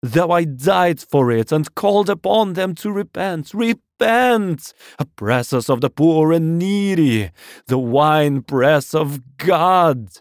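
high, loud ranting sermon; unrestrained loud preaching. A narrator's reading. Curate raves to God while in hiding, loud fervent preaching. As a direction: cry repentance aloud, stretching the key words. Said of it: "nothing I could do would moderate his speech".

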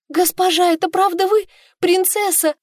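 высоко и громко, не веря своим глазам; ахнуть от счастья, узнав принцессу; радостное изумление. Acted. Служанка узнаёт госпожу. (служанка узнаёт свою принцессу, взволнованно и громко)

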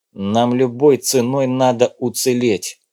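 commanding. Acted. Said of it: "приказал он".

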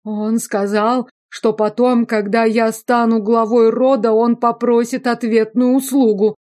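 half-hearted excuse; whiny excuse. A narrator's reading. Prisoner excusing himself. (немного выше, ноюще)

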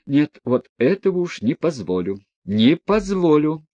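boil over and forbid it; flaring anger. Acted. Mother flaring up at the daughters' laughter, angry. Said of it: "вскипела вдруг гневом".

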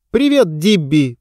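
chirpy, slow high greeting; cartoon princess. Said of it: "прощебетала она".

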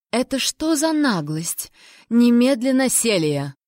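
barked royal command, rising; roaring tyrant king. Acted. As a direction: bark it out like an angry king. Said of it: "рявкнул государь".

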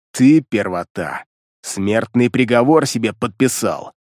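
low, slow threat through clenched teeth; contained shout. Acted. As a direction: spit it out through gritted teeth. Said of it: "процедил сквозь зубы зверь".

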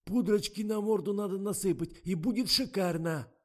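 high, loud, congested suggestion; stuffed-up voice. A narrator's reading. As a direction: offer advice through a bad cold. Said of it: "явно сильно простуженный Миша".

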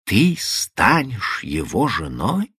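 slow, bewildered echo; stunned and at a loss. Acted. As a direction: repeat it as if you cannot believe it. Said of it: "с изумлением и несколько растерянно повторил".

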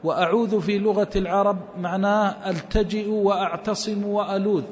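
normal talking voice

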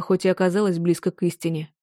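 ordinary delivery

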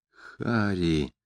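беззвучно. A narrator's reading. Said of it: "произнёс я беззвучно одними губами".

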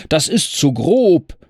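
high, loud angry outcry; cornet shouting. Acted. Thrown rider cursing his horse, loud high cry. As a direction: yell at the horse in outrage. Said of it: "rief er".

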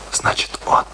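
breathy stunned whisper. Acted. Kurt whispers to Alice in shock, hushed whisper. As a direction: whisper it as the truth sinks in.

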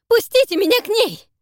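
high, loud frantic cry; husband screaming to be let to his wife; desperate shout. Acted. Zak struggling to reach wife.

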